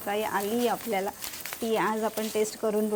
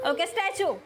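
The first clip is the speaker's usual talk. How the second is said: sing-song game call of statue; 6 semitones higher than usual. Shown as a demonstration. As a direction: call out स्टॅच्यू for the freeze game. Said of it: "स्टॅच्यू बोलेल".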